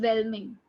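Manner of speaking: "whelming" set apart after a pause; second half "whelming" said separately; emphasis on whelming. Shown as a demonstration. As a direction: land on "whelming" as its own piece. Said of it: "emphasis on whelming".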